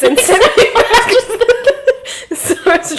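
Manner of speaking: words squeezed out through a high, loud fit of laughing; cracking up mid-sentence; real laughter. Real, not acted. Laughing hard at the photo.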